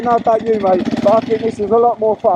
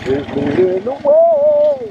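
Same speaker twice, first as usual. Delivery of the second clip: cheery singsong; 6 semitones higher, slower than usual. Real, not acted. Cheering the dog on ahead.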